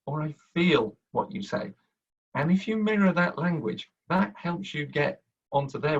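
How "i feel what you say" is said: "feel" leaned on, falling; stress on feel. Shown as a demonstration. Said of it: "You will see people say".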